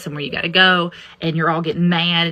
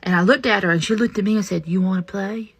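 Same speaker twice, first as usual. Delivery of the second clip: put-on child's voice; 3 semitones higher than usual. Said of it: "He said".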